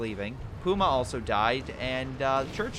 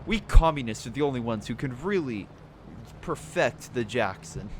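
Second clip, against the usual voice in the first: bad Russian accent. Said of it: "by my terrible accent".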